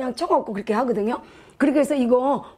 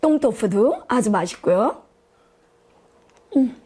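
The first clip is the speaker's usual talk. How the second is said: chewing while talking; talking between bites; mouth full. Real, not acted. Seen 1: picks food with chopsticks, puts it in mouth around 2.5-3.4s.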